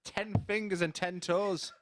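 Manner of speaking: chuckling through the words; laughing. Real, not acted. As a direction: laugh while you say it. Laughs after accent joke.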